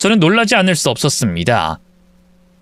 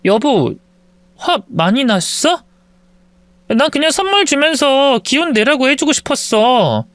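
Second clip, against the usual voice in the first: wife's gentle voice; 8 semitones higher than usual. Acted. Wife soothing angry husband.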